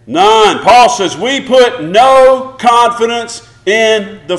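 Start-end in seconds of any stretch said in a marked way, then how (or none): 0.1-0.6 loud none. Real, not acted. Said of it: "Say that loudly".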